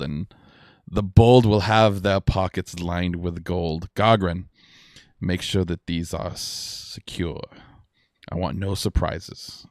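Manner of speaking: lightly voiced boastful pirate captain; pirate lord. Pirate lord boasting to a captive, lightly voiced. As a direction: play a cocky pirate lord, drawing out key words.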